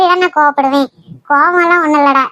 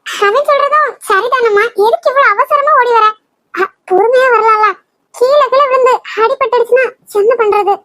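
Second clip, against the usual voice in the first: higher, raised worried calling; worried shout; 5 semitones higher than usual. Acted. Father-in-law worried she will fall, calling out higher. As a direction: call out in alarm, pitched higher. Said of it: "நீயும் ஏன் கத்துற".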